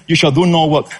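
"do" held and falling, lean on it; stress on do. Shown as a demonstration. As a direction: press "do" in "You shall do no work". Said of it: "And the emphasis".

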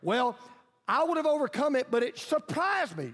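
mock excuse. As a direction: mimic a lame excuse-maker. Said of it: "so don't come and say".

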